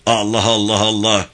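chanted war cry in an altered voice; battle cry. Acted. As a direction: voice a charging troop's cry. Soldiers' battle cry during the charge. (savaş narası)

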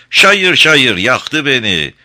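put-on slow, loud sing-song Arab accent; Arab imitation. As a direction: belt it like an Arab singer. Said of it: "bir Arap taklidi yapacaktır".

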